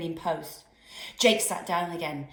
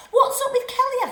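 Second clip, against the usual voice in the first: puzzled; 9 dB louder than usual. Acted. Biscuits puzzled.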